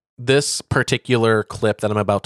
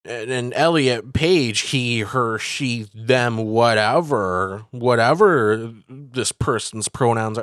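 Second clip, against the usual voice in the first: slow, drawn-out dismissive mock; slower than usual. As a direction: brush it off with contempt. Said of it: "he's like".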